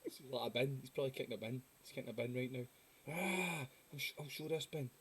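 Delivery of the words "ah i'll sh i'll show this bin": higher-pitched mock belligerence; mock drunken anger. Drunk man threatening a bin, mock belligerence. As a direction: play a drunk squaring up to a bin.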